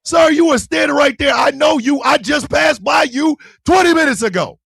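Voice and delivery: high-pitched, insistent retold protest; animated protest.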